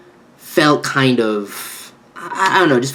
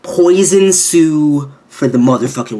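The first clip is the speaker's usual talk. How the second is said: hype; 2 semitones higher, 3 dB louder than usual. Real, not acted. Hyped opening declaration.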